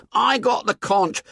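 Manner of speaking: high, anxious schoolboy voice; timid Piggy. Acted. Piggy begging the boys to stay put, high and anxious.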